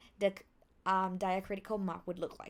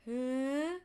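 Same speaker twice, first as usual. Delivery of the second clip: stretched "huh" climbing high; longer "huh"; 4 semitones higher than usual. Shown as a demonstration. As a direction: draw out "huh" as it rises. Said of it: "Make it longer".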